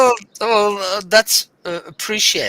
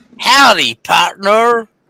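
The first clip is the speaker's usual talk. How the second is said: loud, put-on Southern American accent; 7 dB louder than usual. Wanting to be a southerner, greeting in a southern american accent. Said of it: "I want to be a Southerner".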